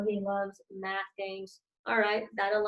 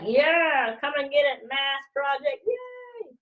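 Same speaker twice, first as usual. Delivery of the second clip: mock cheer; 4 semitones higher, slower than usual. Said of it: "he's heading out there like".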